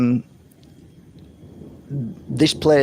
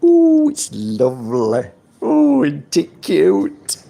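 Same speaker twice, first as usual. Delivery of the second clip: cooing, slow, over-the-top estate agent; gushing real estate agent; 3 semitones higher, 4 dB louder, slower than usual. Acted. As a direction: gush over the property like a salesman. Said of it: "I sound like an estate agent".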